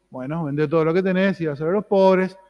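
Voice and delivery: a touch of gentle, loving counsel; lightly voiced tender Jesus; loving advice. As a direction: offer it kindly, like a friend. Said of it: "Jesús lo miró con amor".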